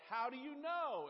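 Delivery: loud, high, slow shout; shouting back to wife, loud and high; yelled back. Retold or imitated. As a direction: holler it back across the house. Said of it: "I will yell back".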